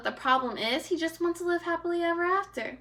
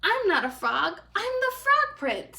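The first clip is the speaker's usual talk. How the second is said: annoyed; 9 semitones higher than usual. Acted. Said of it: "getting a little annoyed".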